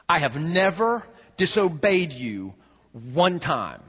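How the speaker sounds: slow, mock-innocent child; a light hint of a child protesting innocence; ten-year-old's claim. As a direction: play the little angel who claims he never disobeyed. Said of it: "imagine your ten-year-old saying to you".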